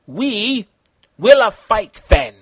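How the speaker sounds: villain voice. A narrator's reading. Villain accepts the fight.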